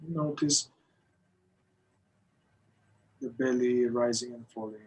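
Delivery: measured meditation guidance with long pauses; guided meditation. Acted. Teacher leading a group through breath awareness, guided meditation. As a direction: guide them into the breath, unhurried, phrase by phrase.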